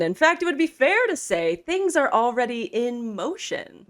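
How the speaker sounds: a sly plotter promising results; scheming conspirator. Acted. GM voices second conspirator.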